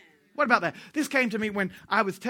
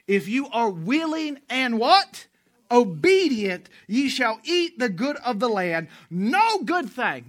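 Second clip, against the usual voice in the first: loud, slow scripture call-out; preaching scripture; 4 semitones higher, 5 dB louder, slower than usual. Acted. Preacher calling scripture out to the congregation with force. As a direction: drive the verse home to the crowd.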